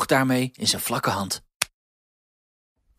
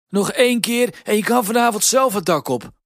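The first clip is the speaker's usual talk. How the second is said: louder, higher sleepy grumble; grumpy threat; 10 semitones higher, 6 dB louder than usual. A narrator's reading. Sleepy Piet grumbles at Huispiet, louder and cross. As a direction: snap at the intruder, louder. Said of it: "had een van de Pieten gezegd".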